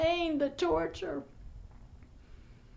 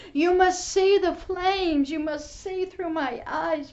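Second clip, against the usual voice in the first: voice of God; 4 dB louder than usual. Retold or imitated. Preacher voicing God's call to hear the suffering. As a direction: speak as God, pained and insistent. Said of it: "He was showing me".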